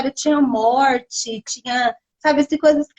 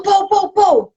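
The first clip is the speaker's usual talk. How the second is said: imitated helicopter noise; 6 semitones higher, 4 dB louder, much slower than usual. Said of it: "É a onomatopeia".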